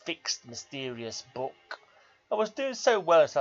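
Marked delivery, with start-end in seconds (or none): 0.0-1.8 slow, solemn poetry reading; poem recital. Acted. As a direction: read it like a grave old verse. Reads a poem aloud.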